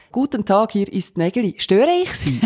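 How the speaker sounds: mock timid caller. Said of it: "Weisst, so".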